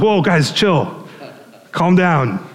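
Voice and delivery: casual, lightly amused calming; smiling reassurance. Retold or imitated. Jesus calming frightened disciples, imitated smiling reassurance. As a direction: settle startled friends with a smile. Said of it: "he says it with a big smile".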